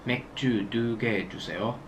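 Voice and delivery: quick natural speed; fast. Shown as a demonstration. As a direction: rattle it off in one breath. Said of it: "Fast it's".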